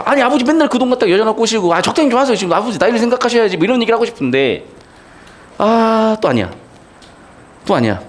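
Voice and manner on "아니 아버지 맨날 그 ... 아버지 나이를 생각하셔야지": higher, mildly exasperated telling-off; mock scolding son. Son's held-back rebuke to his wasteful father, pitched higher and mildly exasperated. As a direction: pretend to finally tell your father off. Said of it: "아버지한테 한 소리 하고 싶어".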